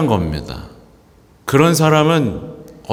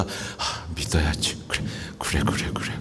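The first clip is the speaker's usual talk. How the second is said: breathy near-whisper, much softer, reassuring yourself; hushed self-persuasion; 7 semitones lower, 11 dB quieter than usual. Retold or imitated. A priest voicing a sick believer's inner thought, hushed. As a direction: murmur it as an inner promise to believe. Believer talking themself into faith.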